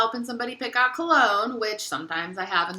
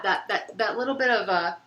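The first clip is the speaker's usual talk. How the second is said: stumbling, repeating the same words; stuttering. Real, not acted. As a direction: stammer while searching for words. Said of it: "I feel like I'm stuttering a lot".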